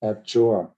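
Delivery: abjure with JURE stressed; stress on second syllable. Shown as a demonstration. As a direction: land the weight on JURE in abjure. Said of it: "it's on the second syllable".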